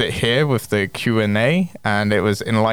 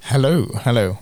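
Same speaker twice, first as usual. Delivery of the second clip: vocal fry; 3 semitones higher than usual. Real, not acted. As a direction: let the voice crackle into fry. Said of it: "You've just got genuine vocal fry".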